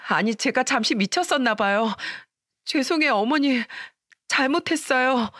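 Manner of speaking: stammering, desperate apology; panicked pleading. Acted. Daughter-in-law begging her mother-in-law, flustered and pleading. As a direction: beg forgiveness in a flustered panic.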